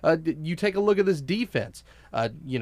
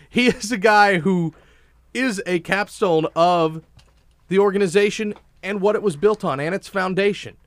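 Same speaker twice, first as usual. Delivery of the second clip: worked up; 4 semitones higher, 4 dB louder than usual. Real, not acted. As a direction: build him up with real fervour. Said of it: "I'm getting all worked up".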